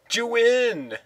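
high, startled asking; surprised question. Real, not acted. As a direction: ask in disbelief. Surprised question on the win screen.

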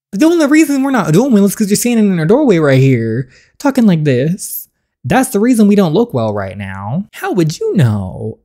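high, loud angry retort. Acted. Son blames father standing in the doorway, angry. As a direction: push back hard, pitch up.

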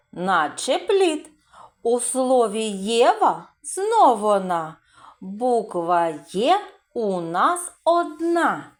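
slow sing-song reading of the verse; teacher reciting a rhyme; rhyme for children. Acted. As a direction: recite the little poem to the class.

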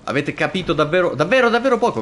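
high loud exasperated rant; fast then high exasperation. Real, not acted. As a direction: throw up your hands at the chat. Mocking chat misunderstanding.

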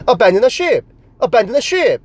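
pompous British officer shout, lightly done; British accent. Retold or imitated. Mock British officer ordering crew off the ship in British accent. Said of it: "그 특유의 영국의 액센트로".

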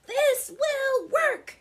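high, loud, slow declaration; proud. A narrator's reading. Rocks admire their rubber-ball fix, proud loud declaration. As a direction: announce it with drawn-out confidence. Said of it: "They were proud of themselves".

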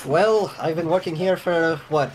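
a hint of a long-serving worker's voice; lightly voiced guard character. Game master as Dolfo telling players about the job, lightly voiced.

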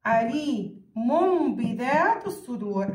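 عليم بذات الصدور slowly, with a held m before the ب; measured recitation of عليم بذات الصدور, lingering on the m; iqlab pronunciation. Shown as a demonstration. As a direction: stretch the tanween of عليم into a hummed m. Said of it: "هيك بصير لفظها".

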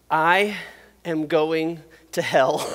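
mock terror through a laugh; laughing dread. Scared child thinking aloud.

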